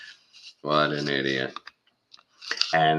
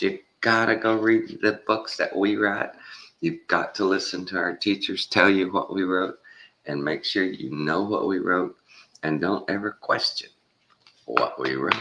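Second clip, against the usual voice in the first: lightly voiced sneering authority; mock smug expert; 4 semitones higher than usual. Mocking experts who demand obedience, a touch higher and sneering. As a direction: lecture them down like a know-it-all.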